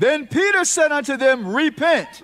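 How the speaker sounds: loud preached scripture reading; preacher calling out the verse; preaching scripture. Acted. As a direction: proclaim the verse to the congregation. Reads scripture at full preaching force.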